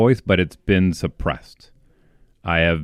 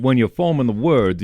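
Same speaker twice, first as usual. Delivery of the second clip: Kentucky accent demo; 4 semitones higher than usual. Shown as a demonstration. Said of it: "a little bit more from Kentucky".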